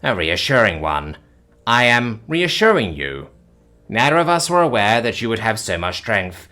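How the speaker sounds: detached clinical calm; calm alien. Acted. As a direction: alien reassuring the panicked human. Alien reassures calmly.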